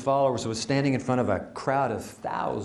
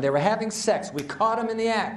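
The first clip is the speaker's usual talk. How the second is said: raised, high-pitched public accusation; loud accusation; 5 semitones higher than usual. Acted. Religious leaders accusing the woman before Jesus, loud. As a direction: announce it to the whole crowd. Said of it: "And in loud voices".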